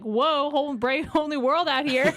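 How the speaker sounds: amused, drawn-out wide-eyed wonder; newborn's amazement. Pretend. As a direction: play an overwhelmed newborn, laughing through it. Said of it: "they're just like".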